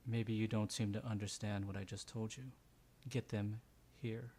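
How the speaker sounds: menacing. Acted. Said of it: "and he just goes".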